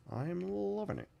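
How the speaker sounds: high-pitched, badly done TV-character impression; Maxwell Smart. Tired painter amusing himself while working, bad Maxwell Smart impersonation. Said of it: "very bad Maxwell Smart impersonation".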